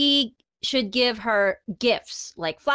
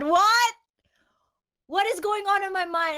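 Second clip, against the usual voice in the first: breathy stunned whisper; 5 semitones higher than usual. Real, not acted. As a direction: whisper it in disbelief. Stunned by a strange thought.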